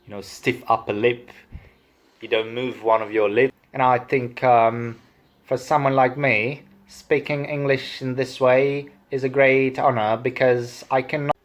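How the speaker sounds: stiff-upper-lip posh English; posh transatlantic private-school accent; super posh accent. Shown as a demonstration. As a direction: do an old-time transatlantic toff. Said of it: "that super posh transatlantic accent".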